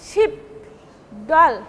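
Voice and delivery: "Ship", "doll" each as one stressed beat, set apart; whole-word stress. Shown as a demonstration. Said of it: "giving pressure on the whole word".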